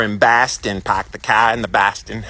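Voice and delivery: attempted Boston accent; playful, amateur go at Boston speech. Southern boy showing how Boston talks, in a Boston accent. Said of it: "to have accents".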